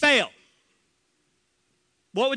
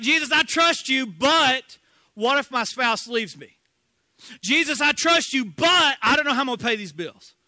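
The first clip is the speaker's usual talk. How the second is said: anxious believer; 2 semitones higher, 5 dB louder than usual. Acted. Anxious believer voiced repeatedly.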